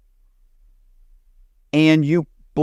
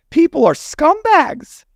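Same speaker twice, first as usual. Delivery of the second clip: People are scumbags laughed out, much higher and slower; laughing; 3 dB louder, slower than usual. Real, not acted. To the laughing host, the verdict repeated through a laugh.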